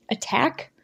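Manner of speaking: soft, cold questioning repeat. Acted. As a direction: repeat it coldly. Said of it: "Rosh repeated coldly".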